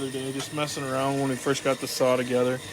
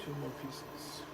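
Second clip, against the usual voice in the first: yawning while talking; 12 dB quieter, slower than usual. Real, not acted. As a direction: say it through a yawn. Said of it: "Keep yawning".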